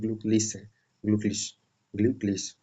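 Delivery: ग्लूकलीज repeated with a clear German ü; ग्लूकलीज, every syllable spelled out; pronunciation drill. Shown as a demonstration. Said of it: "अच्छे से pronunciation करना है".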